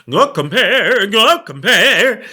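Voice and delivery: put-on sung "Go compare" high and loud in an Italian accent, the last "go compare" drawn out slowly; an opera singer doing "Go compare" in an Italian accent. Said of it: "Tr-, try Italian".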